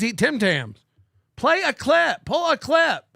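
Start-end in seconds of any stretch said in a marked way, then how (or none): 1.4-2.2 raised barking command; mock bossy order. Mocking the host's clip demand, mock bark. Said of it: "He does this thing where it's like". 2.2-3.0 mock bossy order. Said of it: "He does this thing where it's like".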